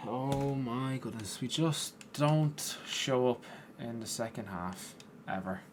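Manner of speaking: slow, resigned, dragged-out words; weary slow lament; deflated sigh. Real, not acted. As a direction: say it slowly like you've given up. Team concedes, exasperated.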